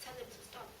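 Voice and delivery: barely-there pleading voice; hushed inner plea. Retold or imitated. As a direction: let it fall almost to nothing, like a heart pleading. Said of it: "I felt his heart saying".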